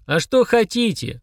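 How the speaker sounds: slow, weary question; drawn-out tired demon asking. A narrator's reading. Demon giving in to haggling children, slow weariness. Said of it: "устало спросил Фрундарок".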